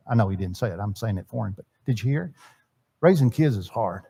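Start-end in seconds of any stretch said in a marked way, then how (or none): 3.0-4.0 low, worn-down frustration; weary dad admitting it's hard; understated frustration, pitched low; frustrated. Retold or imitated. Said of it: "says it in a tone of voice".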